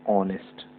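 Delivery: ऑनेस्ट said with no h, starting on ऑ; ऑनेस्ट, open vowel first and the h dropped; silent h in honest. Shown as a demonstration. Teacher showing the class how to say ऑनेस्ट. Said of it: "हॉनेस्ट नहीं बोलते हैं".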